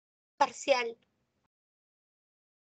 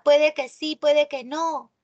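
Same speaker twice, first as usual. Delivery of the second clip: doubtful shrug; 5 dB louder than usual. Shown as a demonstration. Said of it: "Esta es una oración dubitativa".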